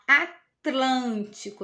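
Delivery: "Atlântico" slowly, split as A-tlântico; TL bem articulado. Shown as a demonstration. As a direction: draw out "Atlântico" to show the TL cluster. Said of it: "Olha, quando a gente fala". ("Atlântico" devagar, destacando o TL)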